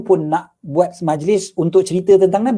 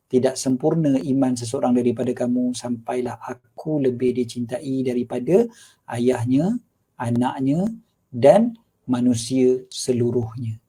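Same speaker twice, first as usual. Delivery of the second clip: lower, measured reading of a translation; hadith translation reading; 4 semitones lower, 3 dB quieter, slower than usual. Acted. Preacher explains the hadith's meaning, measured low reading. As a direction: read out the meaning phrase by phrase.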